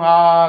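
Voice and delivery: mock yawn on a drawn-out "aah"; demonstrating a yawn; imitated yawn. Shown as a demonstration. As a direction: stretch an open "aah" as if yawning. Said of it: "जांभई देताना वेडावाकडा तोंड".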